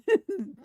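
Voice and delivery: high, loud burst of laughter; real laugh. Real, not acted. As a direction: laugh out at the bee.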